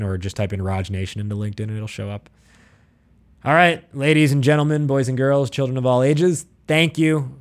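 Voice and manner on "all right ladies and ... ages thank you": grand entrance announcement. Acted. Circus-style opening to the sign-off.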